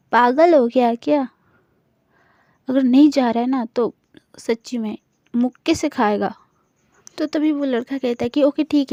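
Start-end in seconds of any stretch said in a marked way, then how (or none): 0.1-6.3 angry snap. Retold or imitated. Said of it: "बहुत ही ज़्यादा घूर के देखती है".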